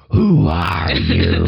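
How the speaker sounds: slow, low, rasping unvoiced demon hiss; demon whisper. Evil Deadite woman confronting Ash, slow low demon whisper. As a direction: breathe it out like a Deadite.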